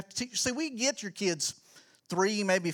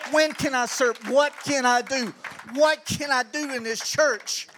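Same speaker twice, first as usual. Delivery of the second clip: louder, eager "When can I serve?"; eager asking; 4 semitones higher, 7 dB louder than usual. Retold or imitated. Pastor voicing eager church members, louder and keen. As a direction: call out the question like a kid keen to help. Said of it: "if that was everybody's mentality".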